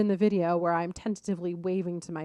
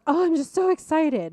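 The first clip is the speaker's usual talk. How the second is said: put-on much higher, louder, gushing girl voice; imitating a bubbly girl; 9 semitones higher, 6 dB louder than usual. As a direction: mimic a giddy young girl, pitched way up. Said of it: "She goes".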